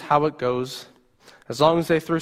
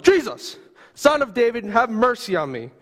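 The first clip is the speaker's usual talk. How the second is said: desperate scream; 6 semitones higher than usual. Acted. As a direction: cry out to be heard over the crowd. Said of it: "you start screaming at the top of your lungs".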